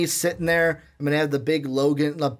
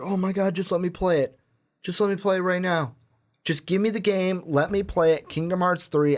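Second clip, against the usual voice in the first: mildly giddy retold plea, pitched higher; giddy pleading; 4 semitones higher than usual. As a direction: lightly act out impatient fan begging to play. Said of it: "like, the most giddy".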